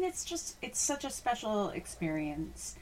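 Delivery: whispered in awe, breath only; hushed whisper. Real, not acted. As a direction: drop to a whisper as if sharing a secret. Awed hush about fireworks games.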